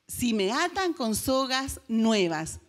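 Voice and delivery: lento y marcado; repetido despacio. Acted. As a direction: alarga cada palabra con calma. Sansón repite su secreto. (Sansón repite su secreto: lento y enfático)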